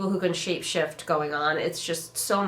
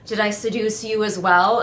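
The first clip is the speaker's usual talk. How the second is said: lightly sassy, teasing question; mock sassy. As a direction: imitate a flirty taunt with a touch of sass. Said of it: "she gets all sassy".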